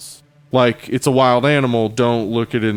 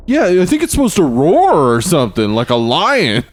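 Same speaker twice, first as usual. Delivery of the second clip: higher, shrugging quote; clueless filmmaker; 4 semitones higher than usual. Retold or imitated. Imagined Jaws maker guessing at shark sounds, higher voice. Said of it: "whoever was making Jaws four".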